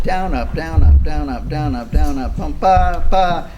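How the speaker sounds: loud, regular "down, up" counting into "bum, ba, ba"; strict upbeat rhythm. Shown as a demonstration. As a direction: chant "down, up" evenly, each "up" right on the upbeat. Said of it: "and that's not right".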